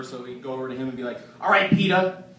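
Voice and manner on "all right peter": lightly voiced New York accent; a hint of New York dad; New Yorker dad. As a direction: imitate a high-strung New Yorker father. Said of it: "this crazy high-strung New Yorker".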